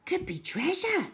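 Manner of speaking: put-on high, hushed girl's voice; breathless hope of treasure; excited girl. A narrator's reading. Cherry excited by old box.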